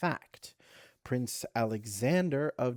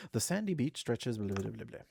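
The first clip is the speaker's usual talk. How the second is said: bored skimming. Real, not acted. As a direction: rattle off dismissively, trailing to blah. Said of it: "You're not gonna tell me about the boat?".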